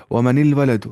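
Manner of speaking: ومن الولد said as "wa man il walad", a kasra linking the two sukuns; Arabic linking vowel demo; joined with kasra. Shown as a demonstration. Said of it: "یہاں ایسے پڑھنا ہوتا ہے".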